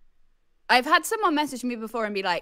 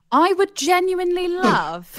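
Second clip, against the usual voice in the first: lightly voiced Spanish conquistador; half-hearted conquistador voice; 8 semitones higher, 9 dB louder than usual. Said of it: "The voice of a Spanish conquistador".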